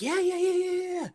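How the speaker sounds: high-pitched rapid string of yeses; mad nervous. Retold or imitated. Nervous boyfriend asked about a shower, mad nervous. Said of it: "acting mad nervous".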